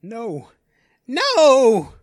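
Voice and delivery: rising into a high, loud scream; terrified cry. Acted. Hostage crying out as the villain seizes him, terrified. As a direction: panic building to a scream.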